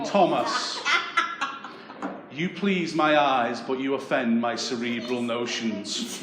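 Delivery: slow, lightly voiced posh woman; a hint of a middle-class girl dumping her boyfriend; mock posh girl. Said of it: "most middle-class breakup of my life".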